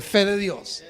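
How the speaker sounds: fe de Dios called out loud and firm. Shown as a demonstration. Pastor leads church shouting fe de Dios, loud. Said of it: "Dígalo fuerte".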